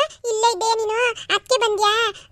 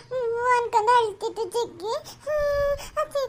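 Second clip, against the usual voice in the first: whimpering questions between small sobs; tearful child. Acted. Child asks aunt why grandma went to hospital, tearful. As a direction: plead through sniffles, missing grandma.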